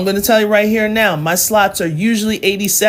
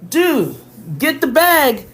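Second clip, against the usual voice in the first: yelling at phone; 9 semitones higher, slower than usual. Real, not acted. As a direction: call out to the chat like they're far away. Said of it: "Why am I yelling at my phone".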